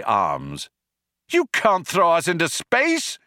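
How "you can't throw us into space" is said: high, protesting yell. A narrator's reading. Ford protesting to the Vogon, yelling. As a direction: protest in a raised, urgent voice. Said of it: "yelled Ford".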